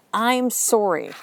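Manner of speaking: slow, simple sorry; clean apology. Shown as a demonstration. Showing how to apologize without excuses, clean apology. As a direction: apologize plainly and stop there. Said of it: "is a clean apology".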